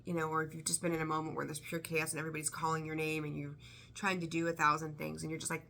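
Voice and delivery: usual speaking voice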